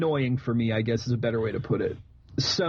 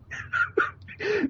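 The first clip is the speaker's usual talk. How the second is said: breathless high cackle; high wheezing laugh. Real, not acted. Cracking up over incels.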